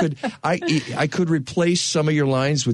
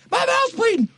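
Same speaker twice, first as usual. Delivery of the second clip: much higher, ecstatic exclamation of My mouth's bleeding; joyful cry. Acted. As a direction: cry it out with sheer delight. George overjoyed he is alive.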